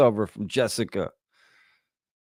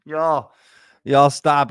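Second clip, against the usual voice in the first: laughing plea; 6 semitones higher, 6 dB louder, much slower than usual. Real, not acted. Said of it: "if I keep laughing the whole time".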